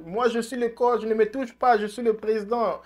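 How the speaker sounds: lightly voiced coach and president; mock argument. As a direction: act out the quarrel half in jest. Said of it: "Bruce aussi voulait dire".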